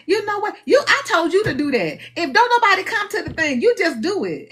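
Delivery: a hint of an insistent God; God telling her off. God instructing the speaker to just do it, mildly insistent. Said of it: "God be like".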